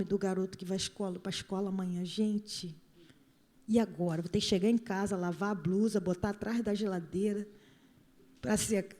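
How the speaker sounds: low, soft muttering to oneself; muttered worried thoughts. Acted. Inner worried thoughts, acted low.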